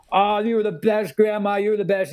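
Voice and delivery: high, gushing praise; gushing over grandma. Retold or imitated. Filmmaker gushing to his grandmother, high and effusive. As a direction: lay the praise on thick, up high. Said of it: "I come up and go".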